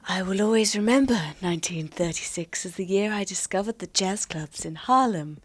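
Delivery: a hint of sultry whisper; breathy seductive read, lightly done; sexy voice. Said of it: "you gotta do your sexy voice again".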